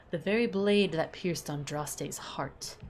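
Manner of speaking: lightly voiced gentleman, slowed for effect; slow dramatic reveal. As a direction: let the line sink in slowly. Voices Wagner in the codex.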